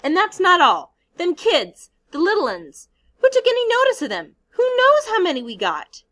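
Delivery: shrill-pitched furious rant; high, loud angry scolding. Acted. Piggy berating boys about the little uns, loud and high. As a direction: pile on the accusations.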